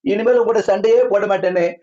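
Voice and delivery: imitated tearful begging. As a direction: plead like a wife wailing for forgiveness. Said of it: "கதறி அழுது".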